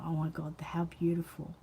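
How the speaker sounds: soft breathy whisper of awe; moved whisper. Real, not acted. Whispering to viewers about the wedding necklaces, moved. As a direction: whisper it, touched by the story.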